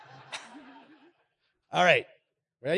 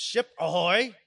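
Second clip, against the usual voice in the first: lightly voiced pirate call; a hint of pirate, rising at the end; pirate warm-up call; 3 semitones higher, 4 dB louder, slower than usual. Shown as a demonstration. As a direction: demonstrate a pirate hail, rising on ahoy. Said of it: "get your best pirate voice going".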